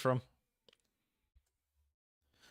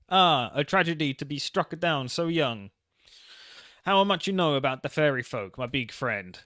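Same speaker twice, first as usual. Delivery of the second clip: put-on Italian accent; 4 dB louder than usual. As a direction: mourn it like a theatrical godfather. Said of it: "you gotta do an Italian accent".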